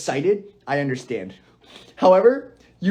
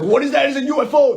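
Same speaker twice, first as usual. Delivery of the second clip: higher, wide-eyed question; mock amazement; 8 semitones higher, 3 dB louder than usual. Tourist gawking at the Space Needle, higher and amazed. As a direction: pitch it up like spotting a UFO.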